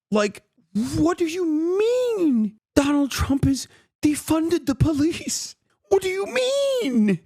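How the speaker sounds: high, strained, incredulous yelling; exasperated yelling. Real, not acted. Streamer ranting at Schumer's Democrats, shouting in high-pitched disbelief. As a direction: yell your disbelief at them, way up high. Furious rant at Democratic leadership.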